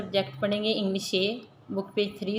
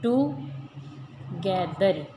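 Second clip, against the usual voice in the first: टुगेदर very slowly, as टु, गे, दर; split into syllables; 2 semitones lower, much slower than usual. Shown as a demonstration. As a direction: stretch टु in टुगेदर, pause, then गेदर. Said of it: "आहिस्ता आहिस्ता पढ़ेंगे".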